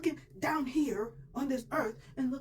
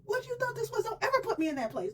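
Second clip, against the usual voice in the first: scared warning; 10 semitones higher, 5 dB louder than usual. Retold or imitated. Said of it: "why are you looking all scared".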